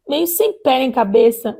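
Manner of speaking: ordinary talk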